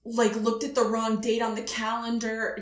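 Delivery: lightly hammed-up clueless dismay; slow, halting mock realization of a mistake; playing dumb. Guest calling hotel past the deadline, playing dumb. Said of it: "Just be dumb as".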